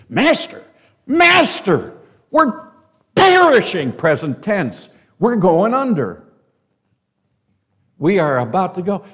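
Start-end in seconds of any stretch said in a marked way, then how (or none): 0.1-3.9 panicked shout. Retold or imitated. Disciples shaking sleeping Jesus. 5.2-9.0 loud, high, frantic cry of sinking men; panicked cry. Retold or imitated. Disciples waking Jesus in the storm, frantic shout. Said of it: "They're panicking".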